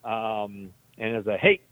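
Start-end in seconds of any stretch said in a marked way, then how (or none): 1.4-1.6 short, higher call to passers-by, retold; mock yell for attention. Patient yelling at anybody walking by, retold yell. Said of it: "I yelled at anybody".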